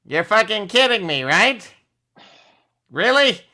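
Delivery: loud, incredulous outburst; exasperated shout. Real, not acted. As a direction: yell it in disbelief.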